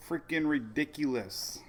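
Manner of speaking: hushed, breathy exasperation; exasperated whisper. Real, not acted. Vlogger venting about the coffee line, exasperated whisper. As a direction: whisper it in disbelief, fed up.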